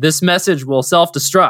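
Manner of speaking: plain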